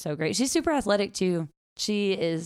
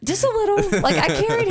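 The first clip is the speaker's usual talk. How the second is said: playfully salty; 8 dB louder than usual. Real, not acted. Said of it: "kinda salty about it, huh?".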